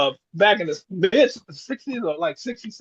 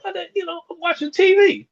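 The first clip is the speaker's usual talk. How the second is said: put-on much higher, whining kid protest; whiny kid; 13 semitones higher, 3 dB louder than usual. Boy sent upstairs whines to his mother about the TV. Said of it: "I was like".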